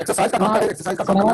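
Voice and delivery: choppy, breaking-up call audio; corrupted glitchy audio. Real, not acted. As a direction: voice cutting in and out on a bad connection. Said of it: "आवाज cut cut के आ रहा है".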